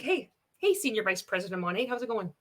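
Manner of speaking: natural, easy talk to a friend; demonstrating an unforced, conversational pitch; casual phone chat. Shown as a demonstration. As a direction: say it like you're phoning a friend. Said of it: "how would you speak if you were on the phone to your friend".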